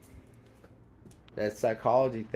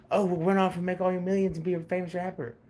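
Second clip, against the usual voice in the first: mocking voice; 8 semitones higher, faster than usual. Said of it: "and then, like".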